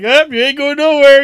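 retold gruff shout. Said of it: "and the guy's like".

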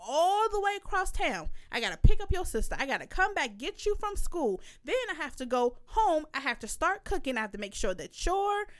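retold angry rant, emphatic and swinging in pitch; pissed-off telling-off. Mother telling off child who called her lazy, pissed-off rant. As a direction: act out a mother reading her child the riot act. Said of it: "I instantly got pissed off".

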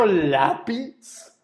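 con lápiz, lento e incrédulo; incredulidad horrorizada. Acted. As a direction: estirar con lápiz, espantado. Horrified at the word pencil. (incrédulo y lento)

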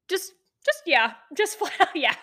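high, breaking into laughter; laughing disbelief. Real, not acted. Storyteller recalling his blunt yes, laughing. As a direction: laugh through the words in disbelief.

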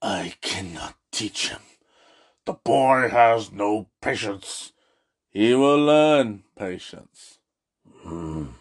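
put-on low, slow, croaky old Yoda voice; terrible Yoda impression. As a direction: do a bad Yoda, low and drawn out. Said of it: "These are terrible Yoda impressions".

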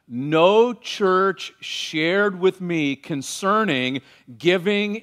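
slow, measured Bible reading; scripture reading. Acted. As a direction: read the passage slowly and solemnly. Reads scripture passage aloud.

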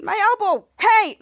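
mock hurt outcry ending loud; acted complaint. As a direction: yelp about a bumped elbow. Retelling hurt character protesting.

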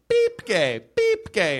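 high mock checkout beep; scanner beep. Comedian imitating a supermarket scanner, high mock beep. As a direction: chirp it like a barcode scanner.

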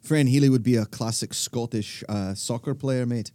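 low, soft attempt at a Scottish accent; tentative, quiet mock Scottish accent. Shown as a demonstration. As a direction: put on a wee bit of Scottish. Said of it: "my wee bit of Scottish accent is".

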